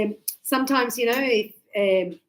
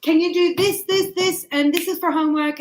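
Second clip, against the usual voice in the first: bossy teacher; 5 semitones higher, 4 dB louder than usual. Retold or imitated. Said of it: "I go".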